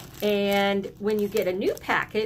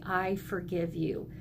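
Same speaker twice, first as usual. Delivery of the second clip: gentle forgiveness; 3 semitones lower, 6 dB quieter than usual. Shown as a demonstration.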